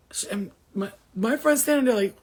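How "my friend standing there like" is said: higher, louder shocked exchange; retelling a stunned face-off. Retold or imitated. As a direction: act out the stunned confusion.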